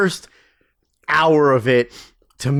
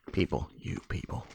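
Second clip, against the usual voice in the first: mock disdain; 6 semitones lower, 15 dB quieter than usual. Teasing listeners, mock disdain.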